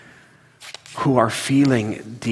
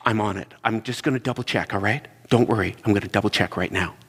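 calm reassurance; 3 semitones lower than usual. Retold or imitated. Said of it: "And I'd go".

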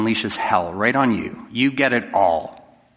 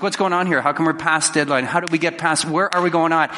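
mildly heated, higher-pitched rapid questions; mock boss yelling; 4 semitones higher than usual. Boss confronting an employee over a project, mock yelling. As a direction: act out an irate boss's barrage. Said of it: "start yelling at you for a project".

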